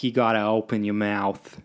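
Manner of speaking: improper, jokey Boston accent; open-mouthed attempt at Boston; rough Boston accent. Shown as a demonstration. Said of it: "I can't actually do a proper Boston accent".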